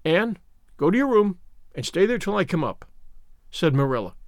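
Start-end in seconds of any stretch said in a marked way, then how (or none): none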